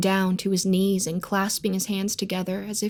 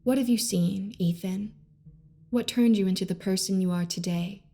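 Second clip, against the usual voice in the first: gentle question. Acted. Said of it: "I asked gently".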